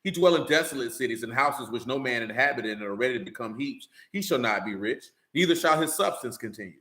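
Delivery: measured, solemn Bible reading; scripture reading. Acted. Preacher reading Job to listeners, solemn scripture voice. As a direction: read the verses steadily to the congregation.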